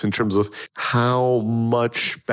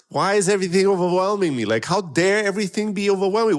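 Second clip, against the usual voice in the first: whiny, higher self-pitying retold gripe; complaining victim; 5 semitones higher than usual. Retelling her own overwhelmed inner gripe, mock whiny victim tone. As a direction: play the hurt victim, half-mocking yourself. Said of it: "I feel complaining like a victim".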